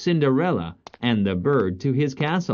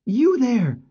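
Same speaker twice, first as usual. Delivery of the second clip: high, raised hail from a prince; commanding prince; 14 semitones higher than usual. Acted. Prince calling to the father at the house, commanding. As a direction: call out with royal authority.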